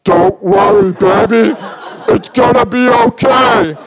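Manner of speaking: mock reassuring. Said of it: "Are you talking to me or the bear?".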